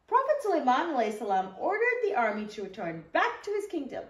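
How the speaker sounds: put-on gentle storybook read-aloud for young listeners; teacher reading the story to the kids, in a storybook voice; reading to children. Once-upon-a-time storytelling.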